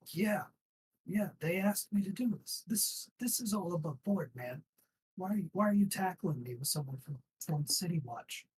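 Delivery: a jittery thug talking fast to save his skin; scared guard. Acted. GM voices frightened guard.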